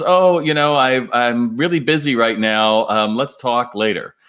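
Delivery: a light imitation of a busy client stalling; Mike brushing him off. Client Mike stalls the consultant again, lightly voiced put-off tone.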